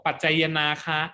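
ปัจจัยนาคะ stretched to five syllables; padded misreading. Retold or imitated. Teacher imitating students padding to five syllables, misreading ปัจจัยนาคะ. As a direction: say ปัจจัยนาคะ as ปัด-ไจ-ยะ-นา-คะ. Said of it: "บางคนอยากให้ครบห้า".

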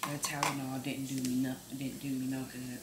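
hungover with a headache. Real, not acted. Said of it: "My head is pounding".

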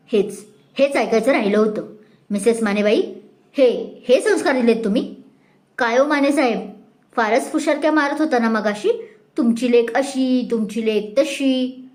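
a touch of sneering anger; sarcastic rebuke to the mother; mild mock anger. Mrs Nimbalkar rebukes Mrs Mane, mildly angry and sarcastic. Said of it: "त्या रागात बोलतात".

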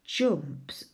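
soft whisper of "Jumps", falling; whispered sounding out. Shown as a demonstration. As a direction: breathe "Jumps" out, no voice. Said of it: "Mm, that's tricky".

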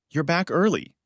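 cheerful. A narrator's reading. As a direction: greet them breezily, pitch lifted. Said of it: "she said cheerfully".

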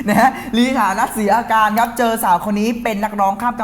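words spilling out through a laugh; laughing while talking. Real, not acted. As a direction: keep laughing as you read the news line. Host laughing at co-host's mix-up. (พูดไปหัวเราะไป)

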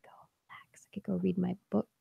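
drowsy breathy whisper; sleepy whisper. Retold or imitated. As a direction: whisper like you're nodding off. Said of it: "And now I'm like".

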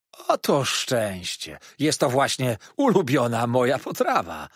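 waiter's gushing delight; delighted exclamation. A narrator's reading. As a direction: cry out at a lucky find. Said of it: "zawołał".

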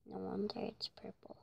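whispering. Real, not acted. Quiet aside while watching.

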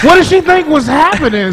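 high-pitched, incredulous reenactment; retold bewilderment. Passenger baffled by her seatmate's behavior, retold in high incredulous voice. Retelling own baffled reaction.

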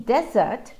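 "desert" said DEZ-ert, first syllable stressed. Shown as a demonstration. Teacher showing students the stress on desert. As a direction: lean on the front of "desert". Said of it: "the stressed syllable is the first syllable".

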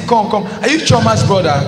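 put-on high-pitched girl cutting in with a question; interrupting girl. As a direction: break in high, as if recognising him. Girl interrupts him once more.

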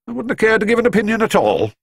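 quick, grave Scottish reply; a Scots doctor refusing to hope. A narrator's reading.

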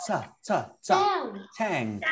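"Ta, ta, ta" as separate t bursts, then TANK; T sound demo. Shown as a demonstration. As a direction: drill the hard t that starts "Tank". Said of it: "Okay, remember that".

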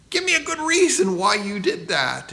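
put-on half-playful shout at the boy; mock angry yell. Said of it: "I yelled at Aaron".

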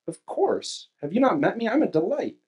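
a lightly voiced smug sinner; mock smug self-praise; arrogant inner voice. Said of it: "before our sinful arrogance starts to say".

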